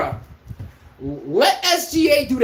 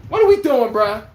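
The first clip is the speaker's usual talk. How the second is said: exasperated repeat; 4 dB louder than usual. Retold or imitated. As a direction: press the question harder, fed up.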